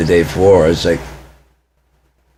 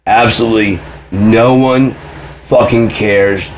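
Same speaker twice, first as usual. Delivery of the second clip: retold angry outburst; 4 semitones higher, slower than usual. Retold screaming at mom continues.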